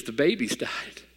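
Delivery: soft, slow tearful imitation of the wife; whisper-soft, slow mock sob of the wife; imitating wife crying. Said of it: "she is just crying".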